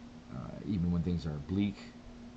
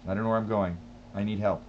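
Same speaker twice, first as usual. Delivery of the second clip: mock helpless whine; 2 semitones higher, 4 dB louder, faster than usual. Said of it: "so that's my excuse".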